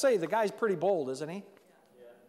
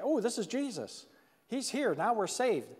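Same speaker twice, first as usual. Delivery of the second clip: higher, lightly acted excitement; excited relief; 4 semitones higher than usual. Peter realizing Jesus has come to save them, lightly excited. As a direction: imitate a relieved, excited disciple. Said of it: "went from fear to all of a sudden getting excited".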